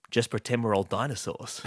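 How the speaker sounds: bursting out the dinosaur line; awkward eager quip; blurted joke. Retold or imitated. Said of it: "So I said to him".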